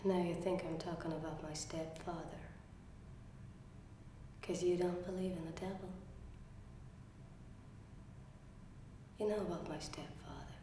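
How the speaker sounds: low, very soft near-whisper with long pauses; quiet, halting and secretive; hushed confession. Acted. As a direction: confess a killing under your breath. Acted confession of killing stepfather.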